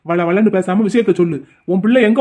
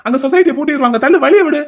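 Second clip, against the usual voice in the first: impatient; 6 semitones higher than usual. Acted. Husband impatiently pushing past wife.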